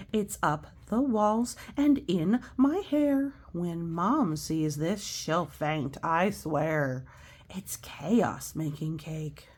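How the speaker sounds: slow, storybook read-aloud; reading to children. Acted. Teacher reading a picture book to children, slow and gentle. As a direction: read the rhymes gently to kids.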